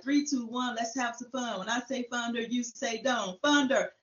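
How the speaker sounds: rally them with a light chant; pepping up the crowd. Retold or imitated. Warming up the Thunderdome audience, pepping them up. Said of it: "trying to get the crowd pepped up".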